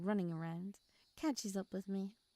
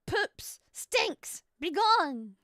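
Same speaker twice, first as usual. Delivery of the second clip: mock dismissal; 8 semitones higher, 10 dB louder, much slower than usual. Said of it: "And I'm just like".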